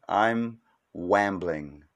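wambling with a w for the r; silly mispronunciation. Pretend. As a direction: say wambling, swapping the r for a w.

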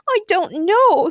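high, loud, drawn-out mock wail; sobbing, hammed up. A narrator's reading. Harley answers about Joker, with a hammed-up sob. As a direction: wail slowly in a put-on sob. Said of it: "sobbed Harley".

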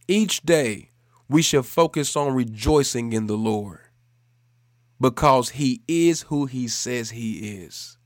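measured, emphatic closing proclamation; preaching. Real, not acted. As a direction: restate the message with conviction, pausing between phrases. Repeats the point as preacher.

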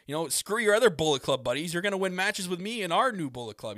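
high, cocky heel promo voice; Kenny Omega impression. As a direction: ham up a smug wrestler boast. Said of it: "Kenny Omega be like".

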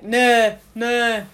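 northern Rotherham "no", pushed out; strong Rotherham accent. Shown as a demonstration. Student shows how Rotherham people talk, strong northern accent. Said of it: "You'll know that they're northern".

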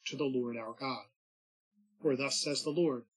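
measured, solemn reading of scripture. Acted. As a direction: read it like the Mass lectionary. Reads the scripture at Mass.

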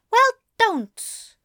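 high, loud snap; a high indignant snap; snapping. A narrator's reading. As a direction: snap it sharply. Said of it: "Aziraphale snapped".

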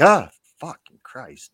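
retold jump-scare curse, loud and high; startled yelp. Sergeant retelling the coworker he scared in the hallway, startled. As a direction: mimic someone jumping out of their skin.

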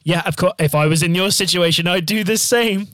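mock-obliging, pitch climbing at the end; over-polite agreement. Queuer reassuring a late passenger, put-on obliging lilt. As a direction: imitate someone insisting it's no trouble.

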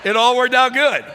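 high, loud happy exclamation; joyful shout. Real, not acted. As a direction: shout the good news out. Joyful punchline of the story.

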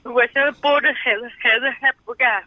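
weepy and upset; real crying. Real, not acted. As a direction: explain the trouble while crying. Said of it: "不哭，不哭啊".

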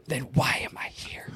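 hushed, dropping to a whisper; soft whispered mock complaint; mock-wounded whisper. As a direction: whisper it as a pretend aggrieved aside. Mock-hurt aside to co-host.

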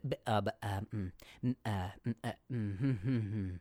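real stutter, quiet and stuck. Real, not acted. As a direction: stumble over the words softly. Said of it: "Stuttered real, stuttered out".

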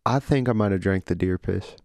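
sheepish Southern son confessing; Southern accent. Acted. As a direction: own up to Daddy with a Southern accent. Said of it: "Southern accents?".

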